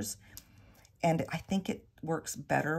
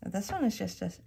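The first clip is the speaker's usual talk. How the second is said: talking around a pin held in the lips; mumbled with a pin in mouth; 2 semitones higher than usual. Real, not acted. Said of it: "sorry, I had a pin in my mouth".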